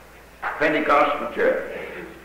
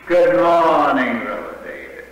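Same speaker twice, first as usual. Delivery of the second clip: friendly greeting. Retold or imitated. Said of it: "Then he greeted me".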